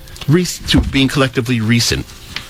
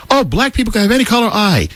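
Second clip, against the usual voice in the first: mocking quote; 8 semitones higher than usual. Mocking what others claim.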